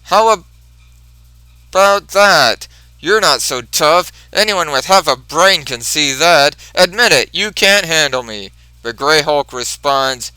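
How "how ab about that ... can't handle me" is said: yelling. Retold or imitated.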